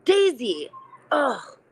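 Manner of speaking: slow, disgusted sneer fading to a whisper; harsh inner critic. Retold or imitated. Voicing her own inner critic for the guest, slow contemptuous sneer. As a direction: spit it out with contempt, then whisper the name. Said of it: "I'll give you an example".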